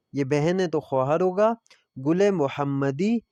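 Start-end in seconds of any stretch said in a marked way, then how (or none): 2.1-3.2 slow pronunciation demo. Shown as a demonstration. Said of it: "اس کا نام ہے تو اس کو ہم گل محمدی".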